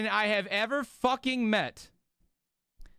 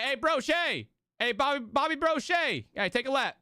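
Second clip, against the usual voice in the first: lightly voiced coach barking a nickname, a bit higher; a hint of a gruff coach shouting across the field; football coach calling out; 6 semitones higher than usual. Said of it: "He'd be like".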